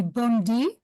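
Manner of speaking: "Bondi" said as bon-DEE; name pronunciation. Shown as a demonstration. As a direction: finish "Bondi" on a clear "dee". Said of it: "the name of this lady is pronounced".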